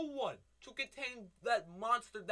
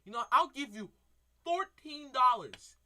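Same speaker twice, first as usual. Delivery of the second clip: calm turning angry. Real, not acted. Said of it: "I'm asking you nicely".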